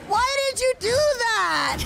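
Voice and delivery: high, loud startled squeak; voice cracking. Retold or imitated. Streamer reenacting startled cry at mother, high cracking squeak. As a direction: crack on the words. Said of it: "my voice cracked".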